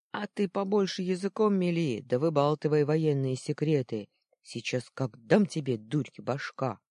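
loud, heated rebuke; angry scolding. Acted. Second boy loudly scolding his friend for spilling secrets. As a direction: tell him off for blabbing.

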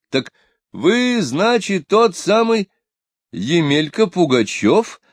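drawn out with mocking disbelief; mocking surprise. A narrator's reading. Scholar recognizes the impostor. (учёный насмешливо и изумлённо узнаёт самозванца)

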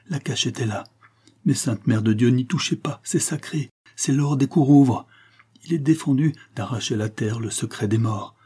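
a frightened sleepwalker begging, rising to a cry; somnambulist pleading in terror. Acted. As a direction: plead in a dream, scared of the officer. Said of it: "paroles entrecoupées de cris d'épouvante".

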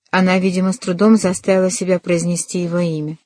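ordinary delivery, nothing marked

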